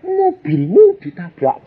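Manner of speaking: high, slow, loud yell; wife yelling. Retold or imitated. Wife shouting to husband mid-prayer that his car was hit. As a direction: shout the alarm across the house. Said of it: "Istri saya teriak".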